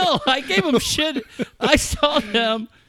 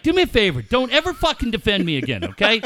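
imitated irritated Coach. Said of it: "Coach is like".

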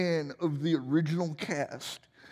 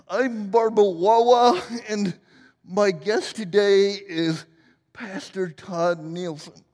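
lightly voiced TV interviewer, louder on "Wawa"; a hint of the talk-show host introducing her guest; Gilda's Barbara Walters; 5 dB louder than usual. Host introducing guest Pastor Todd, a lightly voiced TV interviewer. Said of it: "Gilda Radner as Barbara Walters".

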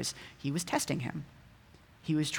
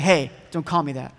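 louder pretend objection; mock rebuff; 6 dB louder than usual. Preacher rebuffing someone who called him buddy, mock-offended and loud. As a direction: cut off the friendly greeting, voice raised. Acted rebuff of a friendly greeting.

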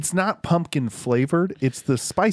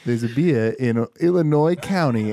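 put-on Southern accent. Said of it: "why did you go Southern and then just end with your regular voice".

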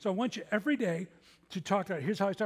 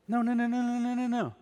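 loud, higher run of noes; emphatic no; 6 semitones higher, 5 dB louder than usual. Real, not acted. Preacher firmly rejects the complaining prayer, loud and emphatic. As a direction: shut the idea down firmly.

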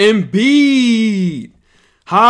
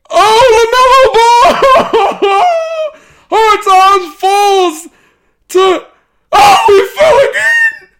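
much higher and louder, yelling in disbelief; real excited shouting; 13 semitones higher, 7 dB louder, slower than usual. Real, not acted. Streamer losing it over fantasy draft picks, excited shouting. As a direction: scream it out like the draft just broke.

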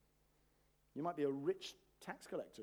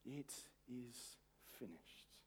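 victory cry; 4 semitones lower, 14 dB quieter, much slower than usual. Acted. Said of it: "that victory cry is".

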